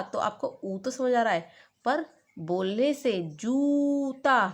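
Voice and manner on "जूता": जूता slowly, जू pulled long; slow stressed जूता; stretched जूता. Shown as a demonstration. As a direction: draw out the ऊ of जूता. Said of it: "जब उस पर जोर डाला जाएगा".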